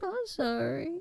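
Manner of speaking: small, high, soft apologetic voice; sheepish cat creeping back, tiny and high; sorry cat. Acted. Owner voices cat apologizing after biting, high and meek.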